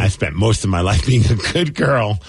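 low, slow seductive read; sultry ad voice. Retold or imitated. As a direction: purr it like a racy personal ad. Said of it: "I'm like".

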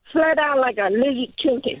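attempted Aussie accent; Australian accent. Shown as a demonstration. Vietnamese caller repeating the host's phrase, attempted Australian accent. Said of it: "let us hear your Australian accent".

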